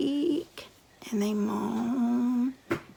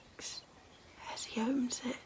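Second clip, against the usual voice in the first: hushed spooky storytelling; 3 dB quieter than usual. A narrator's reading. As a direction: draw the listeners in with a creepy hush. Hushed spooky ghost-story narration.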